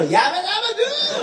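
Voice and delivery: קריאה גבוהה מאוד ועולה בחיקוי מצחיק; צועק את קריאת הניצחון של פרד בגבוה; פרד פלינסטון. Retold or imitated. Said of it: "זה של פרד פלינסטון". (חיקוי גבוה של קריאת פרד פלינסטון)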